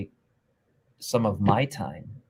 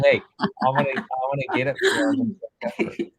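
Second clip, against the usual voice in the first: playful mock buyer; 4 semitones higher, faster than usual.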